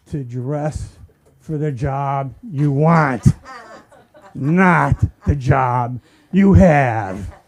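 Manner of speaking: slow, drawn-out fatherly saying; mock wise father. Comic quotes father, slow mock solemn. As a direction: drag out the wisdom.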